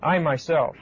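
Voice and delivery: "I myself" said deliberately, weight on "I"; firm, set-apart "I myself"; emphatic I myself. Shown as a demonstration. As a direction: lean on "I" in "I myself". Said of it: "it's very emphatic".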